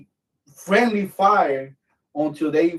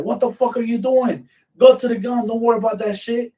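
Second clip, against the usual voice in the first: high, loud scolding; retold angry order; 8 semitones higher, 4 dB louder than usual. Superior berating gunner going for his gear, imitated urgent yelling.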